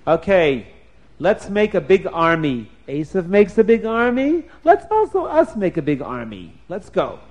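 loud, eager call to arms; cheerful battle cry of the angels; rallying excitement. Acted. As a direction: rouse the troops with a shout.

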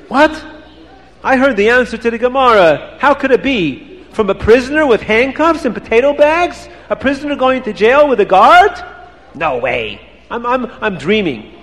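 high, astonished disbelief; can't believe what he just heard; amazed. Acted. Rebbe amazed at prisoner's answer.

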